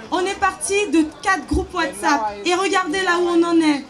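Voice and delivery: loud, carrying voice to the crowd; rally address. Real, not acted. Thanking the gathered students, loud and carrying. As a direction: project it out over the crowd.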